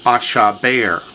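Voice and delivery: "ashaber" with a quick, reduced middle vowel; shortened middle syllable. Shown as a demonstration. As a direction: say "ashaber" as two full syllables around one short one. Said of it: "two full syllables and a shortened syllable".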